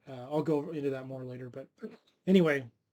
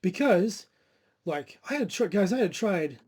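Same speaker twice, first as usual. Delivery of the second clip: higher, louder, welling up; teary-eyed; 3 semitones higher, 4 dB louder than usual. Real, not acted. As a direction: voice catching with real tears. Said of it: "sorry, I'm getting teary-eyed right now".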